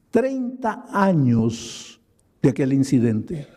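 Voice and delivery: slow and heavy, letting treinta años sink in; slow, weighty telling. Real, not acted. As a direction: say treinta años de aquel incidente slowly and gravely. Repeats thirty years for weight. (lento y grave, dejando caer treinta años)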